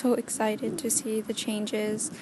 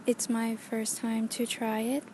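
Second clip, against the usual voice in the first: through a headphone mic; thin earbud mic sound. Real, not acted. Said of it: "like, headphone mics to talk right now".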